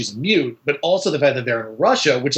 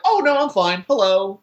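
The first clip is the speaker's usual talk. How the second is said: bright, higher, breezy mock cheer; cheerful; 4 semitones higher than usual. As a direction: chirp it like nothing happened. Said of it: "She should be able to be like".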